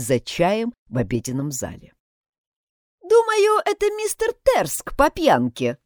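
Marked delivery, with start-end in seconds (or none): 3.0-5.8 tossing her head. A narrator's reading. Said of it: "вскинув голову, высказалась Сэл".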